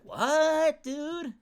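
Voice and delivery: baffled high-pitched outcry; incredulous. Retold or imitated. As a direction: react in baffled disbelief, pitch way up. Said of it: "I'm just like".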